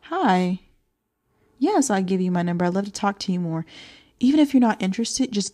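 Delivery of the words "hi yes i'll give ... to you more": soft feminine voice. Shown as a demonstration. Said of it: "say in a very soft and feminine voice".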